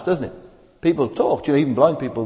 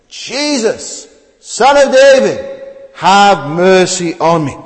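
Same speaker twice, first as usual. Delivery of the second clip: high, loud cry for mercy; a blind beggar calling out to Jesus; pleading cry; 6 semitones higher, 8 dB louder, slower than usual. Acted. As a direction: beg him to hear you, loud and high. Preacher voices blind beggar crying.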